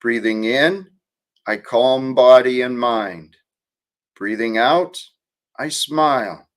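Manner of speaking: calm mantra read to the stream; guided meditation. Acted. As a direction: recite the breathing verse like a meditation teacher.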